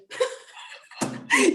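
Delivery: high, breathy burst of laughter; real delighted laugh. Real, not acted.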